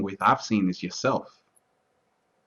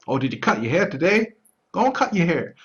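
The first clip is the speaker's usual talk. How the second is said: higher-pitched mock onlooker voice; imitating other people; 7 semitones higher than usual. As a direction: lightly put on a higher voice for someone else. Voicing other people's nagging.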